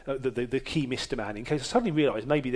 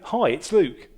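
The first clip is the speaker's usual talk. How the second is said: dramatic announcement; 3 semitones higher, 5 dB louder, slower than usual. Retold or imitated. Caller seeming to spring his name on a friend, dramatic announcement. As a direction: announce it, then hang on a pause. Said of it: "as if a dramatic pause".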